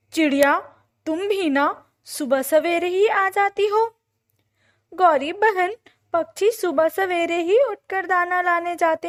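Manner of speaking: high, loud, indignant bird voice; bickering storybook birds. A narrator's reading. Crow and bird arguing over early rising, bickering.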